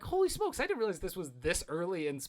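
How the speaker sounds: a sudden wide-eyed exclaim; surprised. Retold or imitated. Fan recalling surprise at an early scene, surprised. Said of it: "I'm like".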